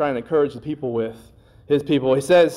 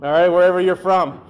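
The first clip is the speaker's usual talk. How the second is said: lightly drawled Tennessee "y'all"; a hint of a Tennessee accent on "y'all"; Southern y'all. Pastor joking about Tennessee speech, light Southern accent. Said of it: "it should be through y'all".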